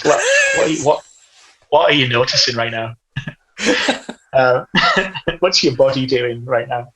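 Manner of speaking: calm grounding therapist questions. Pretend. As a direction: ask it like a gentle therapist. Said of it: "is this your therapist voice".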